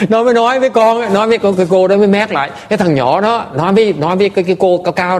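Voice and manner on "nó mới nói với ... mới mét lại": laughing retelling. Real, not acted. Retelling the boy's remark, laughing.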